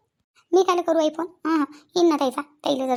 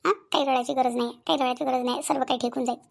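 lower-pitched, soothing reassurance; consoling; 4 semitones lower than usual. Acted. Elder comforting an upset young wife, consoling. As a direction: gently talk someone out of crying.

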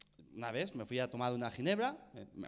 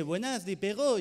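French speech therapist; 4 semitones higher, 5 dB louder than usual. Retold or imitated. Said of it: "me dice".

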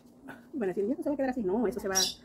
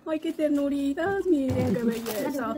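close to tears; 5 semitones higher, much slower than usual. Real, not acted. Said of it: "Iba a llorar".

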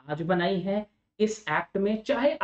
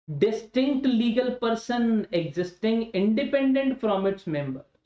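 very slow, word by word; slow dictation; much slower than usual. Shown as a demonstration. Teacher dictating a definition to students, very slow and even. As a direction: dictate it slowly for notes. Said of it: "dictating definition to students".

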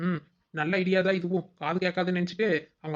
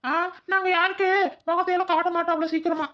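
high, loud put-on stranger voice; disguised voice; 12 semitones higher, 4 dB louder than usual. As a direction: pitch way up to hide your voice. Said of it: "நாம தான் மாறு வேஷத்துல".

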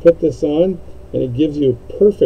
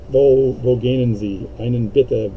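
mock German; slower than usual. Shown as a demonstration. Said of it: "I can speak a little bit of German".

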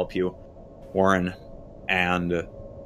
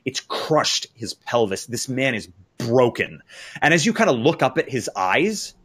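raised, deliberate horror storytelling; dramatic narration; 5 semitones higher, 4 dB louder than usual. A narrator's reading. Game master revealing a crushed man's injuries to players, dramatic and grave. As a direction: draw out the gruesome reveal with pauses.

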